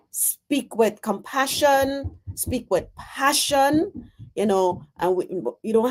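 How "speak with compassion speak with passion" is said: calm gentle urging. Shown as a demonstration. Encouraging Donna to speak calmly, gently and slowly. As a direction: lift it gently, unhurried. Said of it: "We can speak calmly".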